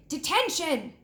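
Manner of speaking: high, sharp shout of Detention. A narrator's reading. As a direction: bark it like a stern teacher. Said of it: "she shouted".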